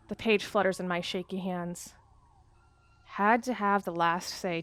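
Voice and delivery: measured, hushed reading of a dark tale; story narration. A narrator's reading. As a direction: read it like an eerie journal entry. Reads the game's journal prose.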